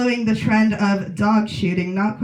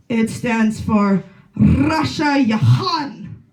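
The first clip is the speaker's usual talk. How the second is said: put-on German accent; much slower than usual. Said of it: "in his accent that I can't do".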